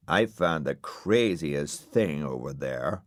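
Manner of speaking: a breathy, laid-back hippie whisper; husky rabbit whisper; Dillon's voice. Acted. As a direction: hush it like a stoned secret. Dillon announces discovery.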